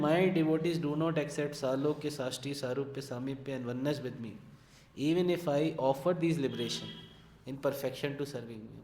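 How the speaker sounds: measured, deliberate reading of a translated verse; slow scripture reading. Acted. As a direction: read each phrase slowly like scripture. Reads translated verse slowly.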